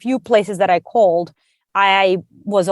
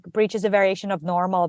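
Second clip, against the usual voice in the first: mantra; 5 dB quieter than usual. Retold or imitated. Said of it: "almost like a mantra".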